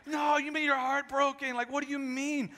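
mock-heartbroken husband's protest. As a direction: play the hurt fan, hammed up. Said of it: "You're like".

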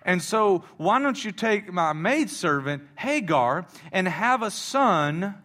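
put-on high, loud old woman, fed up; cranky old Sarah declaring she's done; a hammed-up old lady giving up on babies. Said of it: "Sarah says".

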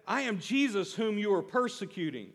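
voicing Jesus.

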